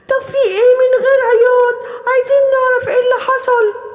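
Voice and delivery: no crying, tell us now; urging animals. Acted. Animal demands the story.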